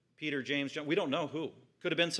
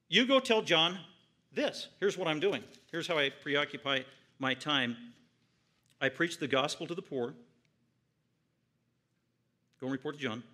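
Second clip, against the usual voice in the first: proclaiming; 2 semitones higher, 4 dB louder than usual. Acted. Jesus sending word back to John, loud and triumphant. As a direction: announce each miracle like a herald.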